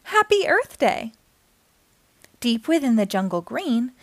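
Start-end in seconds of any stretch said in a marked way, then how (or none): 0.0-1.1 higher, lively lion greeting; a big lion cheerfully greeting friends; lion character voice. A narrator's reading. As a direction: announce it like a jolly big lion. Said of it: "the biggest lion ever seen".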